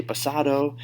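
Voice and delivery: "pasado" with a hard English d. Shown as a demonstration. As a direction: say "pasado" like a non-native, firm d in the middle. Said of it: "start to stand out to natives".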